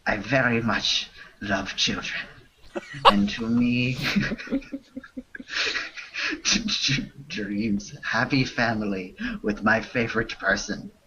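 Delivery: lightly put-on French accent reading broken English; a hint of a fake French accent, half laughing; bad French accent. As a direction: read the spam in a mock French accent, breaking into laughs. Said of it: "read this spam in a bad French accent".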